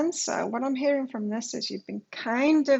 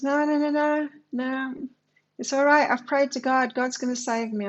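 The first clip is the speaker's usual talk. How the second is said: higher, louder insistent no's to the rescuer; stubborn refusal; 3 semitones higher, 4 dB louder than usual. Retold or imitated. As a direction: wave off the rescuer, firmly insisting.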